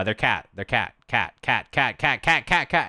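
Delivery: mock-urgent repeating alarm; insistent repeated warning. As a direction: chant it over and over, building in pitch and volume. Retold repeated warning to teammate.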